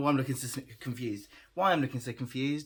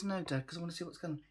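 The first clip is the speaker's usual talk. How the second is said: lightly voiced puppy, higher and softer; speaking for puppy; 4 semitones higher, 5 dB quieter, much faster than usual. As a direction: answer as if you were the puppy. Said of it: "It says".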